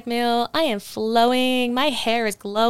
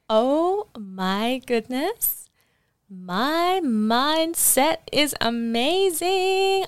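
excited; 4 semitones higher, much slower than usual. Real, not acted. Gushing about the exercise.

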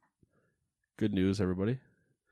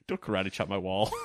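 laughing; faster than usual. Real, not acted. Laughing about karate-chopping wall.

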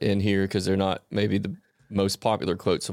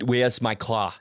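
put-on relaxed Arnold-style Austrian accent; understated Austrian action-hero accent; Arnold Schwarzenegger accent. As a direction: ease into a light Arnold accent. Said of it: "relax into it a little bit".

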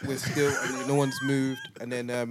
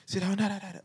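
mock barked order; 10 semitones higher, faster than usual. Soldier barking at passengers.

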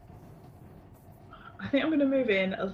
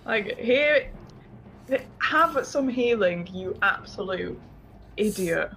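sarcastic affection; 3 semitones higher, slower than usual. Retold or imitated. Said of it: "Is probably what flows down".

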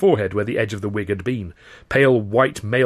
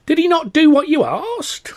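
put-on high, slow old crone voice; a sly gypsy woman, drawing it out slowly; the old crone presses Chaplin, high and slow; 6 dB louder, slower than usual. A narrator's reading.

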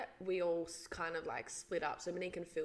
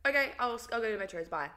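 mock drunk sign-off, higher and louder; slurring drunk; 4 semitones higher, 7 dB louder, faster than usual. Drunk boyfriend abruptly ending the midnight call, imitated slurring. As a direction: imitate a drunk brightly giving in.

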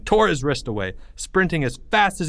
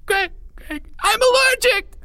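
very high squeal bursting into a loud cry; panicked outburst; 3 dB louder than usual. Acted. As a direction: burst out in terror. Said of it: "Porge burst out, unable to control it".

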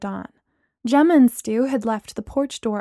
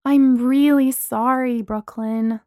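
earnest; 3 dB louder, slower than usual. Acted. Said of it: "Lana said earnestly".

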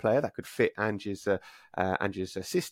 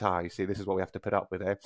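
smiling aside; 4 dB quieter, faster than usual. Retold or imitated. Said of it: "smiles with the reporter and says".

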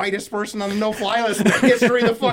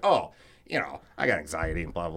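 mumbled excuse; 14 semitones lower, 7 dB quieter than usual. Retold or imitated.

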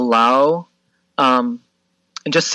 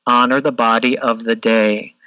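imitating a gentle yoga teacher, lower and unhurried; gentle instructor; 4 semitones lower than usual. Yoga instructor repeating her wise words to a struggling student, gently and a bit lower. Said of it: "she just very gently s-, keeps saying".

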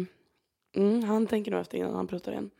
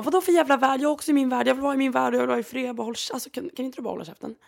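högre, hetsig, snabbare mot slutet; ilsket utbrott; 5 semitones higher, faster than usual. Retold or imitated. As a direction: spela den arga kvinnan som fräser tillbaka. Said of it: "Hon stod där och bara". (kvinnan på gatan fräser åt berättaren, ilsket och snabbt)

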